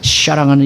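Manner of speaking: 샤랑하는 with s softened to sh; short-tongued pastor. Retold or imitated. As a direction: imitate a pastor's lisped sibilant. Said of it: "발음이 안 돼서 이렇게 얘기하는".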